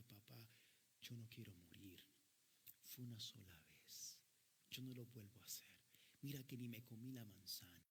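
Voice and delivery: súplica de hijo en voz baja y grave; llanto imitado. Retold or imitated. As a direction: imita con voz apagada a un hijo que ruega. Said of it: "le lloraba a su papá". (ruego lloroso, apenas actuado)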